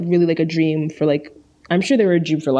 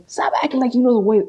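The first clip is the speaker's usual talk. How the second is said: Rick Grimes; 5 semitones higher, faster than usual. Acted. Retelling his talk with Shane, quick impression. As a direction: launch briskly into a TV hero impression. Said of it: "Is that a good impression?".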